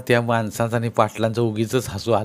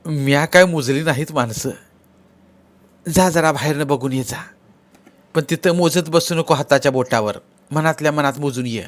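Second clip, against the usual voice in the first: instructing sister-in-law; 4 semitones higher than usual. Acted.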